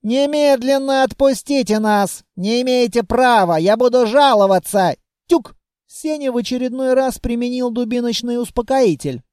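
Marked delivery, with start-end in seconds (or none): 0.0-5.0 raised, protesting voice; wailing protest; indignant wail. Acted. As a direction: demand it loudly like an outraged prisoner. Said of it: "заголосил".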